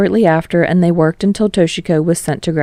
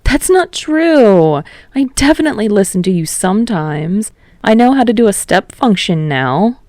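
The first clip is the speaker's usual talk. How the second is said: protesting; 4 semitones higher than usual. Acted. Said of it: "Kirishima protested".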